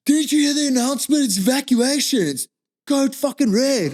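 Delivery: retold frantic official; urgent official. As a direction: hurry him like a panicked marshal. Official scolding him at truck.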